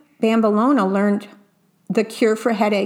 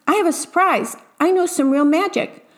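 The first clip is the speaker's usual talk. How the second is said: higher-pitched, mildly excited pupil; eager announcement; 7 semitones higher than usual. A narrator's reading. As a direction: show off a surprise with a touch of excitement.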